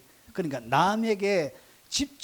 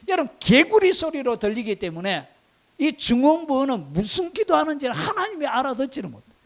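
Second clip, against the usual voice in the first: raised, higher preaching voice; forceful preaching; 7 semitones higher, 6 dB louder than usual. Real, not acted. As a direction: drive the point home to the congregation, loud and high.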